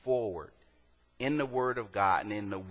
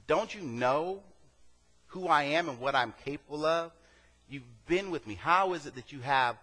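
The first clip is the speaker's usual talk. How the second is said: raised, pleading rebuke as Jesus; lightly voiced Jesus, higher and urgent; Jesus rebuking; 4 semitones higher than usual. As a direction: speak as Jesus chiding his frightened friends. Preacher voicing Jesus rebuking apostles.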